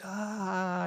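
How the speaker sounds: high drawn-out "aah"; hammed-up cry of exasperation; mock frustrated yell. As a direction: let out a long high mock wail. Acts out returning to social media angry.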